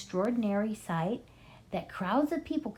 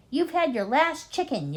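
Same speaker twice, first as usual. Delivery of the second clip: yell; 8 semitones higher, 4 dB louder than usual. A narrator's reading. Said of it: "yelled Bogus".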